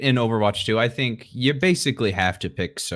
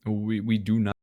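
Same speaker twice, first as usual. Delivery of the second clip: choppy, dropping audio; bad connection; 4 dB quieter than usual. Real, not acted. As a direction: voice cutting out over a bad line. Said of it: "Your voice is cutting out a little bit".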